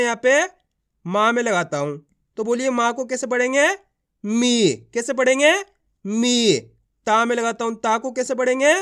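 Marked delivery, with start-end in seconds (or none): 4.2-4.7 मी with a long, drawn-out ee. Shown as a demonstration. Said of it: "खींच के पढ़ा जाता है". 6.0-6.6 मी with a long, drawn-out ee. Shown as a demonstration. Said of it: "खींच के पढ़ा जाता है".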